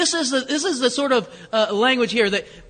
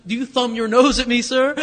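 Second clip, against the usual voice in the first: theatrical challenge; 3 semitones higher, 6 dB louder than usual. Retold or imitated. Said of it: "a line in Romeo and Juliet".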